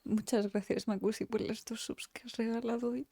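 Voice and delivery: soft whisper. Real, not acted. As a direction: breathe the thanks out quietly. Agradece la sub en voz baja. (agradecimiento susurrado)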